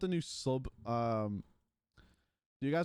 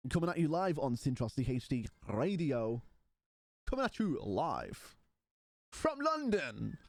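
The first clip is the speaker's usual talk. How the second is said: mock radio announcer; 4 semitones lower than usual. Streamer announcing live from London to chat, mock radio announcer.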